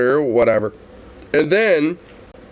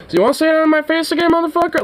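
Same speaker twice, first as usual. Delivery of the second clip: threatening challenge; faster than usual. Pretend. Imagined confronting rude customer.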